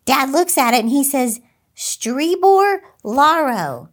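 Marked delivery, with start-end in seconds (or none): 1.7-3.9 sounding out each strange syllable slowly; slow puzzled reading. Retold or imitated. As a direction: reads odd foreign-looking words slowly, unsure. Dad reads strange napkin words.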